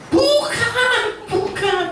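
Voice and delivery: very high nervous giggle through the no; hammed-up embarrassed brush-off; laughing denial. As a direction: laugh it off to dodge the question. The speaker denies being Christian.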